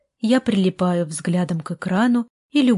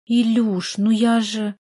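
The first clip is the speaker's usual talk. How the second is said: plaintive; 3 semitones higher, slower than usual. Acted. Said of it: "жалобно начала Карина".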